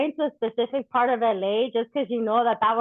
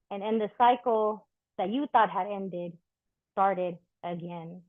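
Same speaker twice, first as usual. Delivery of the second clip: measured, rhythmic poetry reading; spoken-word poem. Acted. Poet reading to a live audience, rhythmic spoken-word delivery. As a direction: let each line land like a verse on stage.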